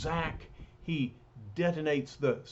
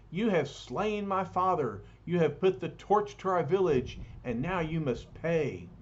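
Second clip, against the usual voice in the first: cried out; 4 semitones higher than usual. Acted.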